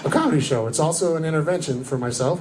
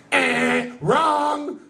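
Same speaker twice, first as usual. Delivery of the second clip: mock buzzer correction; 10 semitones higher than usual.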